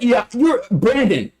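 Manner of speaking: high, slow, patronising correction; mock correction. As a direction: spell it out for her like she's slow.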